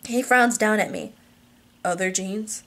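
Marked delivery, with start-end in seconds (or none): 1.8-2.6 lightly voiced man, questioning with a rise; puzzled husband. Husband frowns down at wife, mildly puzzled.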